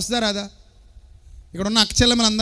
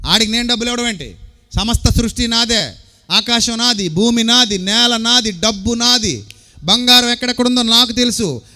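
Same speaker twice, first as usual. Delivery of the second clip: boastful declaration; 5 dB louder than usual. Acted. Preacher voices boastful Caesar-defying God.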